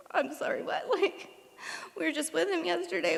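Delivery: can't believe what she just heard; stunned disbelief. Retold or imitated. Shocked by the bad news.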